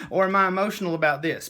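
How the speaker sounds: giggly mock wondering; laughing self-question. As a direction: laugh it off as you ask. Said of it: "And I'm like".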